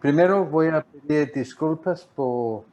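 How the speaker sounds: Spanish with an American accent; American English speaker's Spanish; gringo accent spanish. Real, not acted. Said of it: "sigo hablando como gringo". (español con acento gringo)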